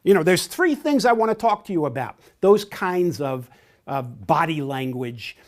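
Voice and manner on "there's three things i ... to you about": fast, clipped-pace announcement, a touch louder; brisk, assertive. Shown as a demonstration. Trainer imitates a direct person taking charge, brisk and assertive. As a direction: rattle off the agenda like the boss. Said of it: "use gestures and vocal intonation to emphasize".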